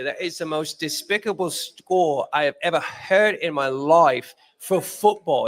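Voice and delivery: lightly put-on English accent; a hint of a British pundit sneering at the score; mock English commentator, lightly done. Shown as a demonstration. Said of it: "let me go into my little English accent here".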